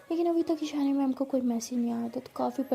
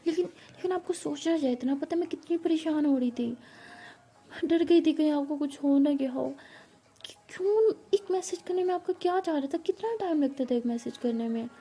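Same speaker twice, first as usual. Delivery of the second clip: higher, rising to an angry cry; upset scolding; 3 semitones higher than usual. Acted. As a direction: still upset, pouring out her fear. Pari still scolding her teacher. (परेशान होकर डांटती हुई आवाज़)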